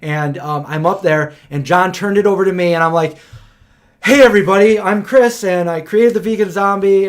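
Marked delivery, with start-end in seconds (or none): 4.0-7.1 overeager stage greeting. Retold or imitated. Retold nervous speech opening.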